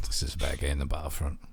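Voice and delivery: fast, breathless whispered verdict; whispered aside. Retold or imitated. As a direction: hush it out quickly like a guilty secret. Retold reaction to the game.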